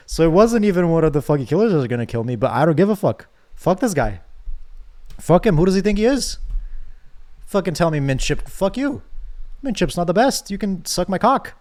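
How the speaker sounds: real indignant swearing; furious rant. Real, not acted. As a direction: vent real rage at the character. Player rages at game character.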